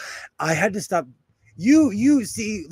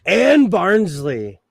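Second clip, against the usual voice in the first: Barnsley accent; 4 dB louder, much slower than usual. Shown as a demonstration. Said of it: "that's an accent".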